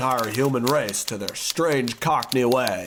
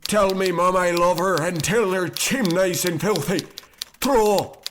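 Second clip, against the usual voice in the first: turning into a creature; 6 semitones higher than usual. Acted. Cursed narrator transforms into a sweep, squeaky. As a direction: voice climbing higher into a squeaky creature.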